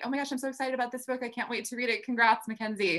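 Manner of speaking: high, fast gushing fan; excited fan. Retold or imitated. Excited fan message voiced.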